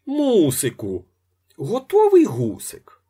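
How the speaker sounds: hungry wail rising to a squeal. A narrator's reading. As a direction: wail for your dinner like a hungry child. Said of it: "Залементував".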